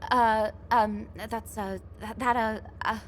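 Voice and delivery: stumbling over words, lost for a reply; flustered stammer. Real, not acted. Flustered, caught off guard by teasing.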